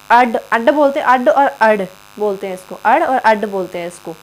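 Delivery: अड sounded with a flapped retroflex ड़, then with an aspirated ढ़; ड़ and ढ़ demo. Shown as a demonstration. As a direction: flap the tongue back for अड. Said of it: "ये वो वाला अंग और ढ नहीं है". (अड और अड में ड़ और ढ़ का फ़्लैप उच्चारण)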